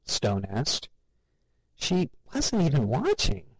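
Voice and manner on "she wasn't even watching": alarmed. A narrator's reading.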